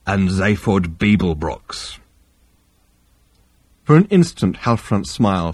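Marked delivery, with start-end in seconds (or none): 0.1-2.0 lower, heavy alien captain; low Vogon voice. Acted. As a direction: growl the report flatly. Vogon reply.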